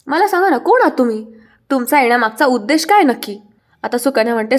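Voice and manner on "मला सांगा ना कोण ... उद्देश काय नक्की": a hint of a furious man pressing for answers; angry demand. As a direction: push the demand up in anger.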